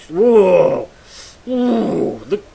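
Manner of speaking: loud, high drawn-out whoa; startled whoa. Real, not acted. Streamer spotting his arch enemy on the map, loud and high. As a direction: react to something jumping out.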